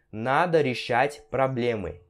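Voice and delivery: проблемы said "prablémy", unstressed O as A; O com som de A. Shown as a demonstration. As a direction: say надо решать проблемы slowly, проблемы with an A. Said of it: "ele tem som de A". (проблемы devagar, com O soando como A)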